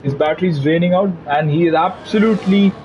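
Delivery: animated motorsport lap commentary; live play-by-play. Real, not acted. Commentator calling a driver's qualifying lap, animated play-by-play. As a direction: follow the car corner by corner, building interest.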